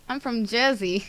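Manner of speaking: unsure try at a Jersey accent; attempted Jersey accent. Shown as a demonstration. Coworker asked to show it, tentative Jersey accent. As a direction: have a go at sounding Jersey. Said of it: "Do you do a Jersey accent?".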